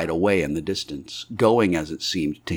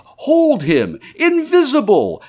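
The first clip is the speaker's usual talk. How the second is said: high, loud calls from a crowd; excited cries; 5 dB louder, slower than usual. A narrator's reading. Onlookers at the fight with the Invisible Man, crying out excitedly. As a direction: cry out sharply in alarm and excitement. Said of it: "There were excited cries of".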